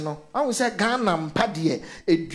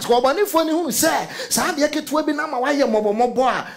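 talking through laughter, pitched up; laughing; 5 semitones higher than usual. Real, not acted. Preacher to church, laughing at the enemy's view. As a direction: laugh while mocking the enemy.

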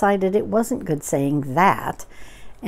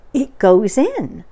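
slow, loud, raised wonder; marveling Pooh; 4 semitones higher, 7 dB louder, slower than usual. Acted. Pooh watches Eeyore's trick, slow and marveling. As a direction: draw each word out, impressed.

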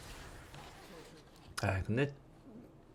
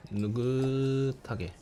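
slow drawl; much slower than usual. Shown as a demonstration.

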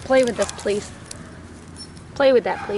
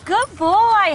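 squeaky praising a dog; 8 semitones higher, 8 dB louder than usual. Real, not acted.

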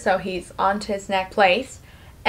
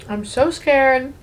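slow, higher whimper, lightly acted; mock tearful; 4 semitones higher, slower than usual. Lori running to Curly for comfort, mildly tearful. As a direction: imitate a frightened, crying woman.

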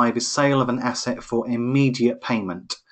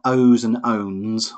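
"owes" and "owns" each stretched out slowly; careful contrast of similar words; 3 dB louder, much slower than usual. Shown as a demonstration. Tutor separating two similar-sounding words, "owes" and "owns" stressed. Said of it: "very similar sounding words".

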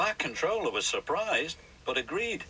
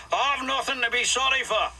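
higher, louder indignant retort; very cross; 9 semitones higher, 3 dB louder than usual. Acted. Douglas angered by Donald, snapping back higher and louder. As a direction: fire it back in a huff. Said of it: "This made Douglas very cross".

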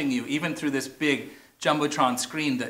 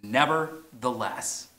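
drawn-out, deliberate "nevertheless"; slow reveal; 3 semitones lower, 3 dB quieter, slower than usual. Shown as a demonstration. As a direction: unveil "nevertheless" slowly. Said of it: "the word is".

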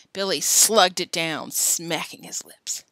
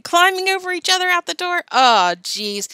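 loud, high-pitched amusement; gleeful, as if about to laugh; 10 semitones higher, 8 dB louder than usual. A narrator's reading. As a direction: crow it with delight. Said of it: "Billy said, laughing".

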